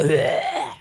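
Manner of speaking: short imitated "bleh", falling; mock bleh noise. Imitating the woman in the movie, mock bleh. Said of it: "She's like".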